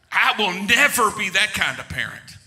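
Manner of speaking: self-assured mock declaration, leaning on never; emphatic vow. Preacher before he had kids, emphatic vow. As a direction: declare it firmly, as a confident non-parent. Voicing his childless, confident self.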